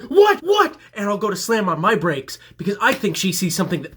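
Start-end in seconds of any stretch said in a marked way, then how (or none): 0.0-0.8 loud, high startled questions; high panicked what; alarmed what what. Retold or imitated. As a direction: jump in alarm. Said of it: "I'll be like".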